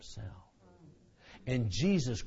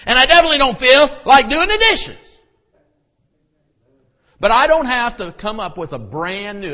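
much higher, much louder fiery preaching; preaching at full force; 14 semitones higher, 18 dB louder than usual. Acted. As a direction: thunder it from the pulpit.

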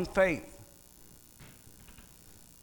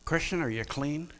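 much softer, gentle asking; God quietly checking on a believer; 3 semitones lower, 8 dB quieter than usual. Acted. God asking the Christian, much softer. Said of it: "God says".

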